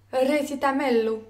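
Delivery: "Recitamello" stressed on the fifth syllable from the end; stress fifth from last. Shown as a demonstration. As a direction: lean early in "Recitamello", five syllables from the end. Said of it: "accentués sur la cinquième syllabe". (« Recitamello » accentué sur la cinquième syllabe en partant de la fin)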